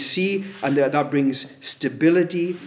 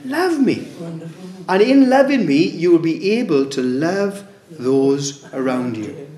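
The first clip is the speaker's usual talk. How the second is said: impassioned plea; 3 dB louder than usual. Acted. God pleading, voice rising.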